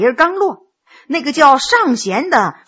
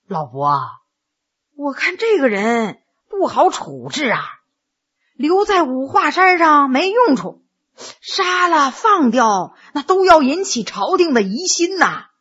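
pondering. Acted. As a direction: think it over aloud, unhurried at the close. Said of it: "沉思了一会儿才说".

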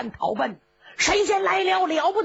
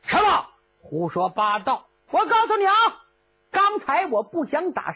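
cocky threats sliding into helpless whining; bluster, then lose heart; bluffing Cheng Yaojin. Acted. (程咬金虚张声势又泄气)

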